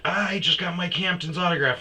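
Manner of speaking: high, loud giddy boast; drunk fan bragging. Retold or imitated. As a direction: squeal it like a thrilled drunk fan. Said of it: "I'm sure she's like".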